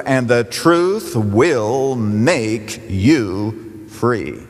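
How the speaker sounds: low and very slow, stretching each word; solemn slowed finale of the verse; slow drawn-out climax. Acted. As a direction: let the promise land, word by word. Climax of a scripture quote.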